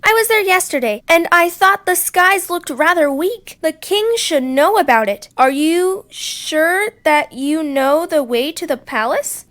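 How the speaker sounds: high, loud, sly persuading; coaxing fox. Acted. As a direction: sweet-talk them toward the den. Foxy Loxy coaxing the birds.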